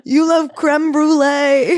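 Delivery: very slow, high and loud, breaking into laughter; cooing through laughter. Pretend. Host listing the author's loves, laughing coo. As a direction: coo it while cracking up. Continuing the teasing list.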